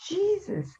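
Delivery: breathy, whispered "Jesus" in disbelief; whispered exclamation. Real, not acted. Exclaiming over crowded cop funeral.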